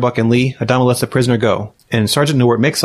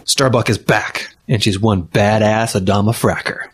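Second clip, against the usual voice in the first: hammed-up epic trailer narration; old sci-fi announcer; slower than usual. Mock movie trailer narration.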